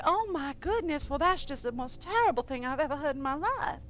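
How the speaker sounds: a hint of a syrupy Southern Belle accent. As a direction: soothe an angry caller, Southern Belle style. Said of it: "Southern Belle is one of my better ones".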